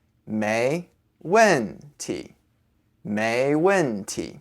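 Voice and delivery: 没问题 slowly, with a light neutral last syllable; neutral final tone. Shown as a demonstration. Teacher saying it altogether, neutral tone on 题. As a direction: draw out 没问题, leaving 题 toneless. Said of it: "say the last character with a neutral tone".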